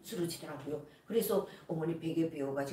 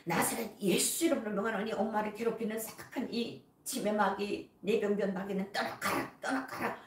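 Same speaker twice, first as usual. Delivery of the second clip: stubborn commanding prayer; 2 semitones higher than usual. Retold or imitated. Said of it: "더 오기가 나서".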